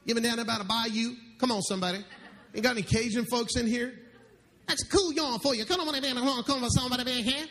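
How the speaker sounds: put-on playful Cajun southern accent working the crowd. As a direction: lay the southern bayou accent on thick for laughs. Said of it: "You like my southern accent?".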